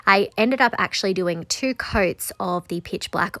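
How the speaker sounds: stuffy nasal voice from sinus trouble. Real, not acted. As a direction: talk through a blocked, nasal nose. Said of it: "excuse my more nasally voice".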